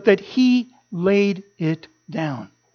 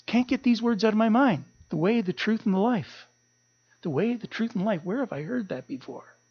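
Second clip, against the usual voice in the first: soft muttering; 8 dB quieter than usual. Retold or imitated. Wife muttering the words to herself.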